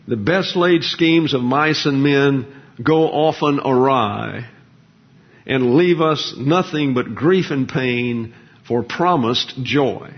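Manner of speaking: slow, measured reading of a Burns verse; poem recital. Acted. Preacher reciting Burns to his congregation, slow and measured. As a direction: give each line of the poem its weight, slowly. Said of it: "Bobby Burns".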